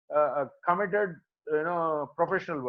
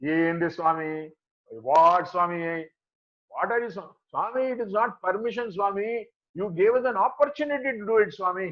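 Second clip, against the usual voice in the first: casual. Retold or imitated. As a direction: imitate someone breezily explaining himself to his guru. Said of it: "he is so casually telling Swami".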